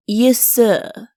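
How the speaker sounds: ordinary delivery, nothing marked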